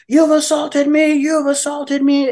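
very high, drawn-out mock wail; slow, high-pitched indignant whine; hysterical drug addict. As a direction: mimic an addict's outraged accusation. Acting out addict fighting security guard.

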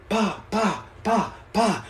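short, soft puffed pa sounds; imitated punching noises. Streamer showing his Sunday hype, puffed pa noises. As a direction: puff out quick mock jab noises. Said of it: "I'm, like, going".

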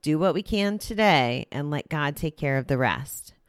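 measured, evenly phrased reading; reading aloud. Acted. Host reading the day's recovery passage to listeners, read-aloud delivery. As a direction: read out a daily reflection with care. Reads a daily meditation aloud.

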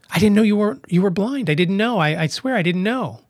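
hurried, mildly pleading apology; apologizing. Retold or imitated. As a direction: imitate a customer protesting innocence. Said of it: "she kept apologizing".

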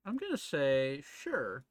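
talking around a pipe stem; words around a pipe; pipe in mouth. Real, not acted. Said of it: "Sorry, I have a pipe in my mouth".

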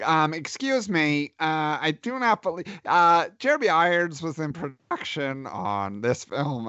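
mock know-it-all with halting delivery; nitpicking listener. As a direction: play a fussy fact-checker correcting the hosts. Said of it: "checking I M D B while you were listening and saying".

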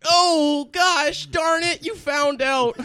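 high squeaky gasp of being caught. Acted.

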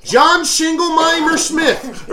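loud, high, slow mock Maine accent; attempted Maine accent. Host imitates people in Maine, exaggerated Maine accent. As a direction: overdo a bad Maine accent. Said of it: "people in Maine can't say Jingleheimer".

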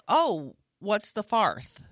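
slow "farth", the O turned to AR; O words like R. Retold or imitated. Improviser retelling last night's accent, "farth" said with AR. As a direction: draw out "farth" with an AR vowel. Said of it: "said all her O words like R".

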